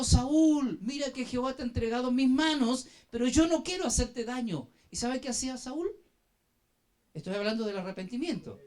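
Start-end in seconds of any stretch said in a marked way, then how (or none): 0.0-4.7 retold shout, loudest on the name; David's cry, moderately raised voice; calling out. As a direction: call out to a king from a distance. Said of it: "David le gritó".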